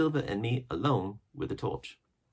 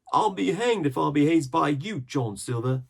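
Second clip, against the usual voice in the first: higher, louder angry retort; defiant pirate; 10 semitones higher, 8 dB louder than usual. A narrator's reading. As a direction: hurl it at Silver. Pirate defies Silver.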